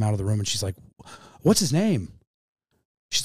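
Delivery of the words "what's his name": higher-pitched urgent question; retold urgency. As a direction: imitate a nurse pressing for an answer. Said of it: "under a sense of urgency".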